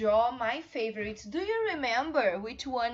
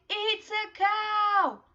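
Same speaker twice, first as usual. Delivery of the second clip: much higher, louder, slow; model to repeat; 9 semitones higher, 6 dB louder, much slower than usual. Shown as a demonstration. Teacher modelling the sentence for the class. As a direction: say it big and clear for kids. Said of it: "So let's say".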